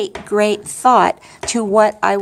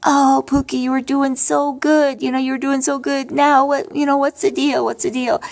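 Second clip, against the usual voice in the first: husband's voice, pitched higher, gently chiding; lightly voiced Bill, higher, teasing her about crying; Bill's voice; 5 semitones higher than usual. Widow imitates late husband Bill nudging her, higher, gently chiding. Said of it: "And I could hear Bill say".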